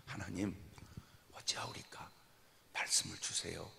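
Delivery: 낮고 부드럽게 속삭이듯 기도; 하나님께 조심스레 여쭙듯이; 조용한 기도. Retold or imitated. 기도를 재연하는 설교자. (조용히 기도하는 목소리)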